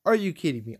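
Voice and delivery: losing it at the game; real gamer rage at a failed raid; raging. Real, not acted. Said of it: "I am raging right now".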